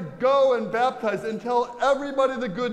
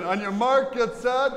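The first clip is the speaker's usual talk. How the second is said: race starter call; 4 semitones higher than usual. Shown as a demonstration. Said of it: "Try it again".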